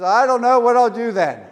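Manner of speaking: high, loud hammed-up worry; mock distressed old man; mock panic. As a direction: cry it out in comic alarm. John panicked.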